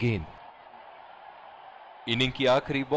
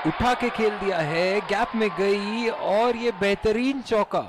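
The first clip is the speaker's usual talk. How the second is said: excited cricket commentary; 6 semitones higher, slower than usual. Acted. Boundary called live.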